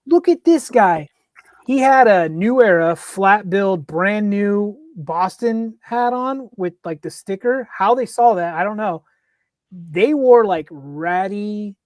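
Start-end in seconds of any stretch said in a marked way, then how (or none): 0.1-7.7 retold riled-up fans. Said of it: "And they're like".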